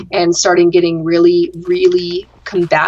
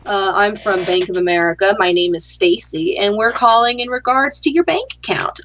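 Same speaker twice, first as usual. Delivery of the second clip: mock call-centre greeting; 2 semitones higher than usual.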